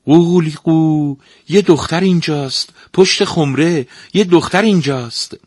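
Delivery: high, loud sing-song rooster crow; the rooster betrays Mara's hiding place, crowing loudly. Acted. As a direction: crow the words like a cockerel. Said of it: "شروع کرد به خوندن".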